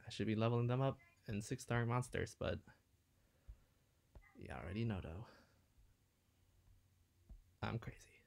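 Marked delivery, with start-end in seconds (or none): 4.3-8.2 hushed aside; whispering. Real, not acted. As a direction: whisper it to yourself. Whispered self-remark.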